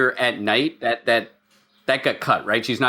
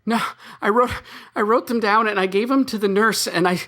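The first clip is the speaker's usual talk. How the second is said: ghost voice; 6 semitones higher than usual. Acted. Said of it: "like my ghost voice?".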